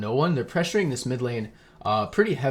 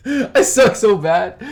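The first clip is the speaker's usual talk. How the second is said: laughing at himself, loud; 8 semitones higher, 9 dB louder, much slower than usual. Real, not acted. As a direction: laugh through the self-mockery. Laughs at own mistake.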